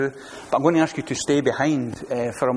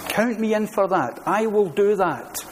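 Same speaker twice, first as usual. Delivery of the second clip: eager volunteer; 5 semitones higher than usual. Retold or imitated. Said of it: "to sign up and say".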